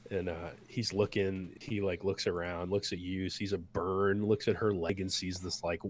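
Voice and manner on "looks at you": ordinary talk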